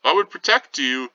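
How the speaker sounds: high, loud and eager, a mock boast; eager high protest. Peter eagerly boasting to the nurse, high and loud. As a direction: pitch it up and oversell the promise. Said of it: "So Peter's like".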